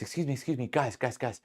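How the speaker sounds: mock-sweet appeal to departing customers; nicer-sounding server. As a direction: plead politely, as a put-on server. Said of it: "making her sound, like, a lot nicer".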